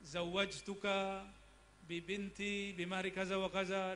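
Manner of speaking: slow, measured Arabic marriage formula; officiant's vow. Acted. Preacher voicing the officiant's vow at a wedding, measured recital.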